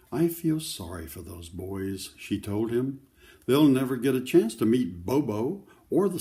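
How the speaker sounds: put-on steady read-aloud voice for children; story narration. A narrator's reading. Grandparent reading a picture book to children, gentle read-aloud. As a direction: read the story to the kids, clearly.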